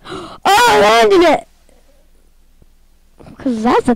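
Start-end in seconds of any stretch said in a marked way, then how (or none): 0.0-1.5 high delighted cry, stretched out slowly; excited. Real, not acted. Gamer landing a trick, thrilled and high. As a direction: celebrate the landing, voice leaping up.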